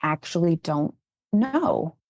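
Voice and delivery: slow, hesitant retold admission; uncomfortable admission. Uncomfortable teacher admitting ignorance to a trainer, slow and hesitant. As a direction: imitate someone reluctantly admitting it, slowly. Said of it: "felt very uncomfortable and was like".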